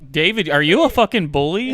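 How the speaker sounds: laughing as he teases. Real, not acted. Friend teases David about the fight, laughing. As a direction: tease him through a laugh.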